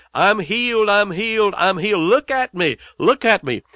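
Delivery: high ringing shouts of a man just healed; joyful yell. Retold or imitated. Healed villager yelling to the amazed townspeople, high joyful shouts. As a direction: cry it out with wild joy, pitched high. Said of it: "He yelled at them".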